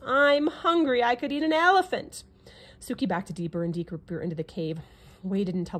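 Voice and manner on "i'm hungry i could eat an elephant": hungry lion roar. A narrator's reading. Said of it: "roared the lion".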